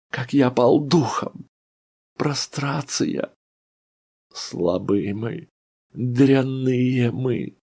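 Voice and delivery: high, slow, aching self-reproach; a broken man scolding himself; bitter lament. A narrator's reading. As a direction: mourn your own weakness aloud. Ivan Dmitrich's bitter lament.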